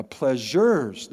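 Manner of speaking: "pleasures" drawn out slowly with weight on the plural; stress on the plural. Shown as a demonstration. Pastor relishing the Bible's plural word, "pleasures" stretched out. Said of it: "not just pleasure".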